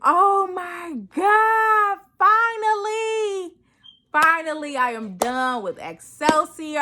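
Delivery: shouting it out with a crack of tears; tearful joyful exclamation; overjoyed. Retold or imitated. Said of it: "I was so excited".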